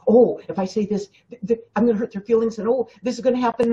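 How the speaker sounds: fast, fretful worrying; mock panicky inner voice; anxious fretting. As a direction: rush it like a nervous people-pleaser.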